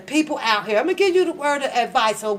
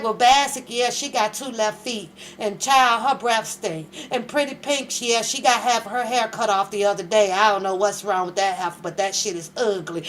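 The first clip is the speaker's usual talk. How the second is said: mock gossip; 5 semitones lower than usual. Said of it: "she could sit here and be like".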